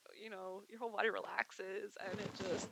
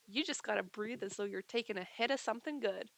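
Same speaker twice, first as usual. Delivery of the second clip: laid-back, casual coaching; re-enacted easygoing cool delivery; kinda cool. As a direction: say it cool, like a relaxed stoner. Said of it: "I said it kinda cool like that".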